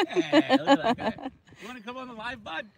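loud, high hail across the water; calling out. Real, not acted. Calling to a friend across the water, loud and high. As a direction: shout over to get his attention.

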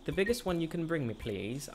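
put-on a light child voice reading a wish list; lightly voiced little boy. Reads child's letter aloud.

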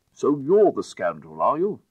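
triumphant shout. A narrator's reading. Lord catching the footman.

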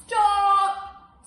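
high, loud shout; commanding stop. Acted. Ravenous beast silencing the animals, high loud shout. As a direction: halt them all with one word. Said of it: "said the ravenous beast".

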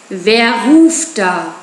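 a full tiger just woken, growling slowly; sleepy growling tiger. Acted. Shere Khan woken from sleep answering the call, sleepy growl. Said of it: "knurrende, verschlafene Stimme eines satten Tigers".

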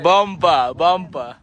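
shouted cheer for the batsman; excited shout of a cricket call. Real, not acted. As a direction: call it out loud from the field.

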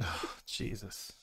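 whispered. Real, not acted. Stunned after sad scene.

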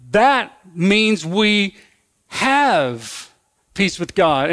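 that means we drawn out very slowly; slow stress. Shown as a demonstration. Preacher explaining peace to congregation, slow and emphatic. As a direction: land on have peace with God deliberately. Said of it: "since we've been justified".

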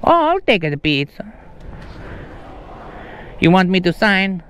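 put-on Italian lilt; Italian accent. Prankster taking the pizza at the door, mock Italian accent. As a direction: play a puzzled Italian customer. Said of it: "uh, an Italian accent".

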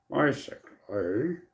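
slow drawn-out nerdy "Basically" with a rising end. Shown as a demonstration. Saying a word to himself in a nerdy voice. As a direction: stretch "Basically" out like a know-it-all nerd. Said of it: "I say it in a nerdy voice to myself".

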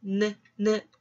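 느 as a short isolated N sound, twice; short, separated 느 beats; letter sound demo. Shown as a demonstration. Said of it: "발음은".

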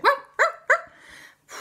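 high, loud, slow ghostly wah; hammed-up ghost dog cry; ghost dog wail. Ghost dog howling during chase.

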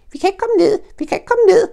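very high, loud gleeful shout; excited Roo shout. Acted. Roo shouts down from the tree, very high and loud. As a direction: shout it down with delight. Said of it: "råbte kængubarnet".

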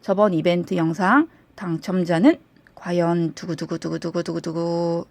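drumroll buildup, announcer voice; booming prize announcer. Acted. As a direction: build suspense like a game show host. Winner reveal with drumroll.

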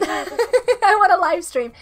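laughing through a slow repeat. Real, not acted. Streamer laughing as she repeats her wish to chat. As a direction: giggle it out slowly, savouring it.

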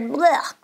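gagging "blech"; acted noise of revulsion; disgusted splutter. A narrator's reading. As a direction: splutter out the bad taste. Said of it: "John spluttered".

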